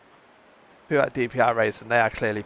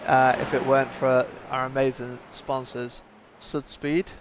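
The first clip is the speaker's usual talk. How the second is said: upbeat, slightly raised streamer plug; sponsor read. Real, not acted. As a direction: pitch the sponsor to the viewers with punchy emphasis.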